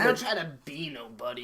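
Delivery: put-on protest at an easy pace; mock defensive comic. Comic defending his stage self, lightly put-on protest.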